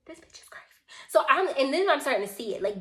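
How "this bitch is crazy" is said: hushed, stunned whisper; whispered aside. Retold or imitated. Storyteller privately judging the ranting woman, whispered. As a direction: whisper it under your breath.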